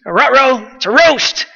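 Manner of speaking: a lightly voiced Scooby-Doo, pitched a touch up. Preacher jokes about a ghost, mild Scooby-Doo imitation. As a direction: mimic the cartoon dog's garbled words, lightly. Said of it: "It's like Scooby-Doo".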